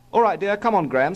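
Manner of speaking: high-pitched mother chivvying; Mummy's voice. A narrator's reading. Mother hurries small Graham away, Mummy's voice. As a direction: chivvy the child along in a high voice.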